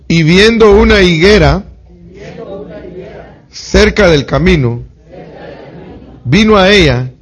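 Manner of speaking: loud, high scripture reading, building with force; preached scripture. Acted. Preacher reads Matthew aloud to the congregation, at full force. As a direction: proclaim the verse to the church.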